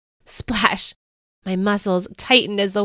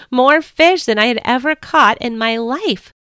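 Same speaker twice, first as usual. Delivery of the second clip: excited cry; 4 semitones higher, 5 dB louder than usual. Acted. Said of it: "I cried".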